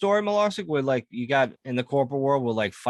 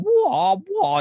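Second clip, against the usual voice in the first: mock kung fu cry; 10 semitones higher, 4 dB louder than usual. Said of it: "he starts doing".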